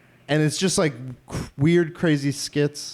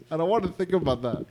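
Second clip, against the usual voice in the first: laughing it out, softer; 3 semitones higher, 4 dB quieter than usual. Real, not acted. Podcast host laughing while repeating he doesn't want to think about it. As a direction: say it through a real laugh.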